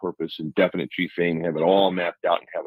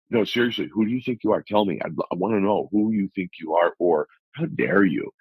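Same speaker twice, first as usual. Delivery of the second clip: "who do you think you are" as a pointed, daring challenge; challenging tone; 2 semitones higher than usual. Shown as a demonstration. Interviewer challenging a guest, pointed and daring. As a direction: press him, half curious, half how-dare-you. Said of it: "depending on the tone you put on that question".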